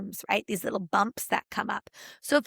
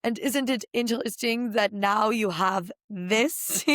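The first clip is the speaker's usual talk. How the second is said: imitating mom with a German accent. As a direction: play a German mother quizzing her child. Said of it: "in her German accent".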